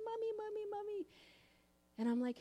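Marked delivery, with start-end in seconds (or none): 0.0-1.1 put-on high, breathy little-girl whisper; child's whisper. Little daughter whispering to her mommy in the morning. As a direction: whisper it like a small child at the door.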